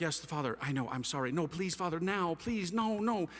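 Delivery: imitated phone pleading, rising as it goes; apologetic pleading. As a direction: mimic Mom begging, climbing from meek to insistent. Mother pleads with another priest.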